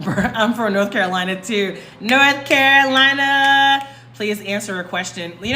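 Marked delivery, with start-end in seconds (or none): 2.0-3.9 excited. Real, not acted. Viewer shares same home state.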